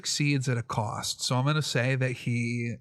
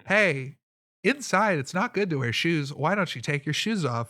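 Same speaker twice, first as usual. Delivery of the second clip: higher, hammed-up coaxing; turned-on, flirty guard; 4 semitones higher than usual. Smitten guard coaxing a stranger out of shoes, flirty. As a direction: coax with a lightly put-on flirty lilt. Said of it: "he's turned on by this display".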